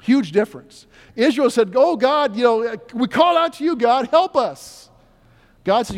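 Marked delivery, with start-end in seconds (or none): 1.8-4.9 mock crying out. Preacher voicing Israel's desperate plea to God. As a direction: cry out to God.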